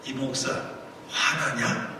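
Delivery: soft, low question with a pause; God's inner question. Retold or imitated. God asks the fuming pastor in his heart, quiet questioning. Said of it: "하나님께서 제 마음에 말을 걸어오시는".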